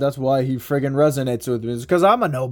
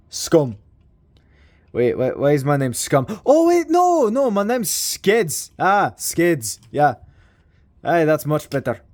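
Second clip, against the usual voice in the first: put-on lightly done Scottish accent; confused waking-up voice with a Scottish lilt. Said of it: "made Skids friggin' Scottish".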